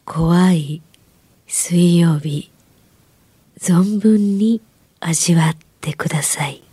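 slow eerie whisper; creepy whisper. Acted. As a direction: breathe it like a ghost story. Show opening tagline, whispered.

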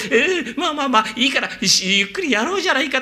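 put-on dashing young master. The speaker playing the dashing young master arriving for the courtesan. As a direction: sweep in and calm her gallantly. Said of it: "ってんで".

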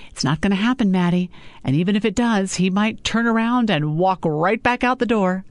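a hint of a scolding mother; mother lecturing her daughter about men.

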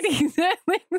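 high, slow alien greeting with a laugh. Pretend. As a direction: greet them like a movie alien. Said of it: "on movies with aliens".

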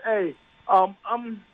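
caller on speakerphone. Real, not acted. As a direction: sound thin, like a phone on speaker. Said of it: "I was turning you off speaker".

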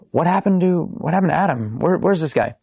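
imitating a puzzled party host; mildly puzzled quote. Quotes own puzzled questions about absent friend.

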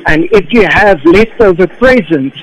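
measured rhyming poem read with a festive lilt; poem recitation. Acted. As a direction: recite it like a Christmas card verse. Jay recites his Christmas poem.

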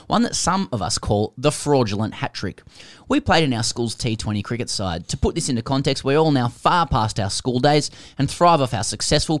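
animated read-aloud with punched key words; reading a listener's letter. Acted.

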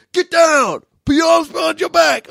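high, forceful shout; loud acted arrest orders; barked police order. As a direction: yell commands as an arresting officer. Police shouting during retold arrest.

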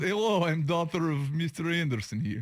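halting put-on Eastern European accent; mock Eastern European accent. Host posing as Mister Anderson's daughter, Eastern European accent. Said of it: "speak with an Eastern European accent".

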